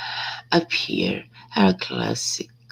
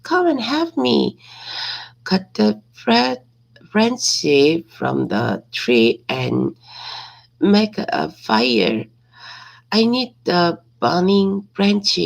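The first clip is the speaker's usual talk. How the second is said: higher, louder call across the cave; shouting for help; 5 semitones higher, 3 dB louder than usual. Acted. Heracles shouting to Iolaus to bring fire, loud call. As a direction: call out to his nephew for help. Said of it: "uh, shout to Iolaus".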